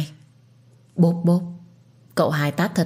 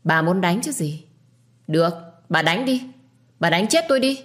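defiant. Acted. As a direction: taunt her to do it. Defiant wife dares the beating. (thách thức, gào lên cuối câu)

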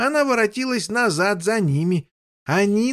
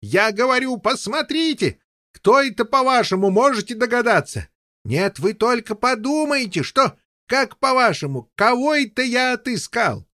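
excited king. Acted. Overjoyed king voiced.

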